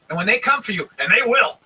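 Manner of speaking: mock ominous pundit warning; lightly voiced TV host, grave and rising; imitating Fox host. Quoting a Fox host's dire warning, mock ominous. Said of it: "He was talking about black people going".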